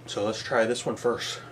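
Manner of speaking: slightly winded, soft breathy delivery; out of breath. Real, not acted. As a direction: talk while catching your breath. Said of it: "Sorry, I'm a little out of breath".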